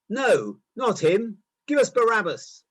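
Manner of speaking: loud, high, angry crowd yell; crowd shouting. A narrator's reading. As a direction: hurl it back at him. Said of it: "They shouted back".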